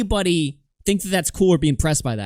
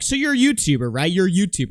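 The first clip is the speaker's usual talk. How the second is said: mock pushy host; 4 semitones higher, 4 dB louder, faster than usual. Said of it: "they're like".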